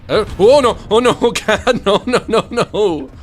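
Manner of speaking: high, loud frantic pleading; panicked laughing. Real, not acted. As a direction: beg them off in half-laughing panic. Spotted by enemy, panicked.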